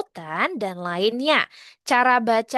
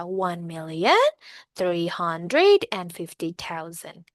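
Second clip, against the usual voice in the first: "One million" rising, pause, then "three hundred and fifty thousand"; read group by group; 4 semitones lower than usual. Shown as a demonstration. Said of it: "Jadi bacanya per baris ya".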